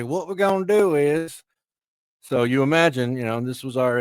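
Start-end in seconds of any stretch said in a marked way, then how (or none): 0.0-1.4 put-on Southern hick accent. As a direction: stretch it out in a higher Southern drawl. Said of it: "don't wanna hear your brain surgeon say".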